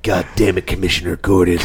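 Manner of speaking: lightly played old-fashioned movie cop; a hint of a hardboiled detective; old-timey cop voice. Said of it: "I just sound like an old-timey cop now".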